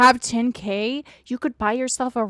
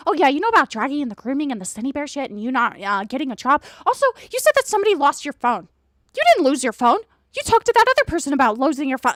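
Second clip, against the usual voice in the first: mocking imitation; 4 semitones higher, faster than usual. Mocking the other's lecture.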